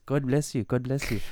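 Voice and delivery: quick-fire imitation of a blessing returned; retold polite reply. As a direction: play the other man blessing back. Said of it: "And the guy just goes".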